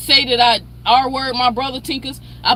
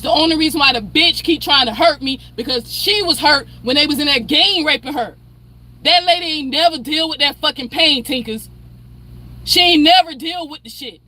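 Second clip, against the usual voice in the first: emotional snapping; 3 semitones higher than usual. Real, not acted. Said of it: "you see how I'm getting emotional and snapping off at you".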